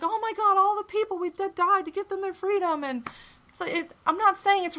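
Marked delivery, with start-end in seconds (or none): 0.0-2.8 mock outrage. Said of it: "And people are like".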